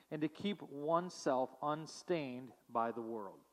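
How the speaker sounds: measured, solemn reading of scripture. Acted. Pastor reading James to the congregation, solemn.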